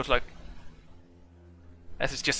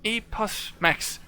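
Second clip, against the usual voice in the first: high, slow robotic repetition; robot logging a name; 8 semitones higher, 5 dB louder, slower than usual. Acted. Warforged storing the player's name, high slow robot voice. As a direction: file the name away like a computer.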